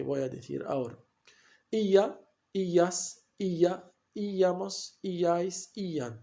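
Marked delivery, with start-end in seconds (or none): 1.7-6.1 each of "Illa, illas, illamos, illais, illan" with a strong long first I; stress on the I. Shown as a demonstration. Teacher reciting endings to the class, every "illa" form stressed on the I. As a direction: dictate "Illa, illas, illa" one by one, leaning on the opening I. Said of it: "un acento sobre la I".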